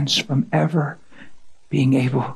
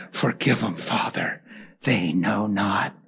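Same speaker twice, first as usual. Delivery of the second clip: soft, lower and slow, a dying plea; hushed pleading prayer; 7 semitones lower, 6 dB quieter than usual. Retold or imitated. Jesus on the cross to Father, hushed plea.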